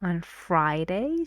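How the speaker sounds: "Friday" repeated with a rise; stress on Friday. Shown as a demonstration. Teacher isolates Friday for students. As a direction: point out "Friday" alone. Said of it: "this is important".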